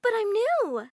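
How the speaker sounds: high, stammering panic; horrified stammer. Acted. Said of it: "Susie looked horrified".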